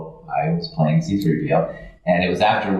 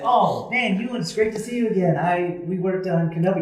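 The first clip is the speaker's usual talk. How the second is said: higher and fast, gushing hello; eager fan greeting; 10 semitones higher than usual. Retold or imitated. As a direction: blurt it out like a nervous fan. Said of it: "And I said".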